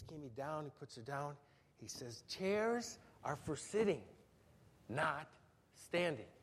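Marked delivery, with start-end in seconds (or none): 2.3-6.3 slow, measured fatherly rule, a bit softer; emphatic dad. Retold or imitated. Dad setting the rule for his toddler a third time, slow and firm. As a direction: spell out the rule one last time, patient but firm. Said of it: "So Dad's more emphatic".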